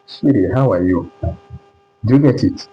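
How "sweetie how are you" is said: SWEDEN, meant as sweetie, with a D for the T; flap T as D. Shown as a demonstration. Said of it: "It now sound like D here".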